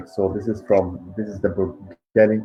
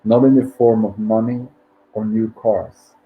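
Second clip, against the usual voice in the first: measured book reading with pauses between phrases; meditation read-aloud. Acted. Host reads listeners a financial abundance meditation, measured read-aloud.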